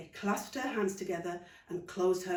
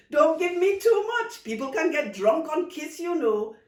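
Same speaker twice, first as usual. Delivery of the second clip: giddy aunt; 9 semitones higher, 9 dB louder than usual. Acted. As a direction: joke as if tipsy on kisses. Aunt giddy after kiss.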